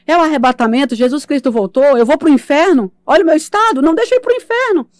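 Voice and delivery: building from loud to a very high terrified shriek; panicked screaming. Retold or imitated. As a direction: scream in rising terror. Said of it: "E eu comecei a gritar". (grito de pavor crescente)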